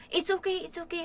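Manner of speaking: mock the maid's booming "it's okay"; loud voice. Retelling how the new maid answered too loudly, imitating a loud voice. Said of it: "Ang lakas ng boses".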